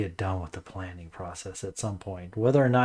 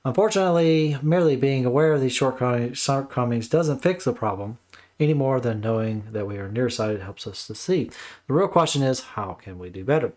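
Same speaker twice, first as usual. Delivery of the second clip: lively, measured book-jacket read; blurb read-aloud; 3 semitones higher, 4 dB louder than usual. Acted. Host reading a book blurb to viewers, read-aloud delivery. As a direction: read it out like promotional copy.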